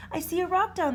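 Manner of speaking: spotting land from the air; dragon voice. A narrator's reading. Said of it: "said the dragon".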